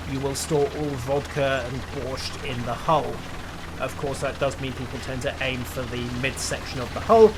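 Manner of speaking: hammed-up Russian accent; playful mock Soviet commander voice; bad Russian accent. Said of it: "My Russian accent really needs work".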